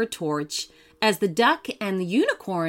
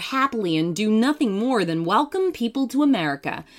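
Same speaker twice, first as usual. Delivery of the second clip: a touch of a gracious lady statue, fretful; polite lady, troubled by an itch; slightly raised, gently voiced Statue of Liberty; lightly voiced grand statue; 4 semitones higher than usual.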